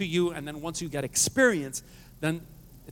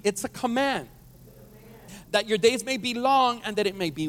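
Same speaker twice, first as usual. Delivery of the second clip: emphatic scripture reading; 4 semitones higher than usual. Real, not acted. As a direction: proclaim it with more force. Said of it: "Let's read it again".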